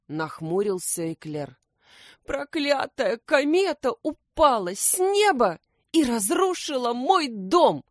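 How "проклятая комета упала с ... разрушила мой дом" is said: high, louder tearful wail; half-sob the bad news; sobbing hedgehog. A narrator's reading. Hedgehog tearfully tells detectives his house is destroyed. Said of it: "всхлипнул Лукум".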